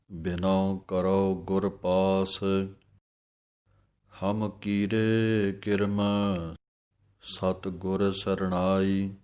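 slow, measured chant-like reading of scripture; gurbani recitation. Acted. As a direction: recite each phrase slowly and devoutly.

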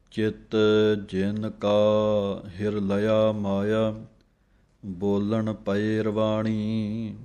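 slow, devout chanting of scripture; measured devotional reading; slow gurbani recitation. Acted. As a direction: recite it slowly like a hymn.

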